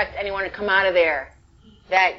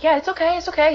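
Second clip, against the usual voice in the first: giddy agreement; 10 semitones higher, faster than usual. Retold or imitated. Retold own reassured reply.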